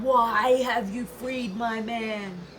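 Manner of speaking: slow, drawn-out angry bellow. Acted. Leopard leaps out and bellows at Kenki, slow angry roar. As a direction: roar the question slowly at her. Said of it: "He bellowed".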